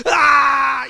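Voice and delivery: put-on loud, high screaming "aah" of a child. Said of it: "y gritaba más". (grito de berrinche imitado)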